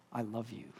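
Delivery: soft, low-key retold declaration; gentle heartfelt parting; tender. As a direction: say it quietly and simply. Friend's tender parting words retold.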